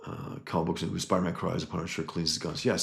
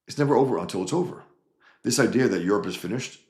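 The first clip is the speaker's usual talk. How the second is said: emphatic; 4 semitones higher, 5 dB louder, faster than usual. Real, not acted. Rallying cry to fight on.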